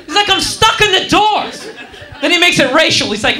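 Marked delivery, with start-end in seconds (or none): 0.0-1.7 higher-pitched indignant outburst; indignant protest, played for laughs; mock freak-out. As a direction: imitate a stuck passenger flipping out. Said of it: "the dude at the door flips out".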